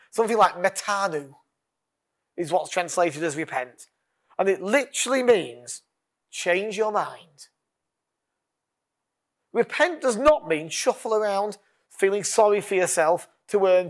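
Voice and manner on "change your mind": very slow, every word weighed; Change your mind drawn out word by word; slow emphasis. Shown as a demonstration. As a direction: spell out the meaning slowly. Repeats definition slowly.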